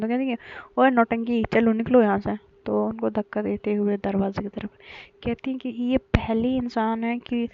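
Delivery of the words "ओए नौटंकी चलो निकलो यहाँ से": mock scolding. Wife playfully pushing husband out.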